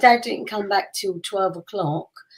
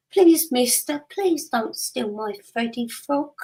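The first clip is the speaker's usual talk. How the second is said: put-on higher, small childlike plea to the robber; little girl pleading; 4 semitones higher, slower than usual. Little daughter begs the armed robber to spare her toy, childlike plea. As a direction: play the wide-eyed little kid begging a stranger.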